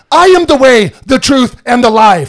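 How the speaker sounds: mildly heated, emphatic Jesus; triggered Jesus. Retold or imitated. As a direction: declare it with exclamation points. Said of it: "it's exclamation point".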